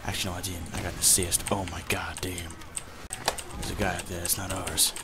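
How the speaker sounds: a hammed-up announcer persona addressing the folks; put-on commentator voice. Gamer narrating to his viewers in a put-on voice. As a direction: play a mock commentator narrating his match. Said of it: "I cannot talk like this anymore".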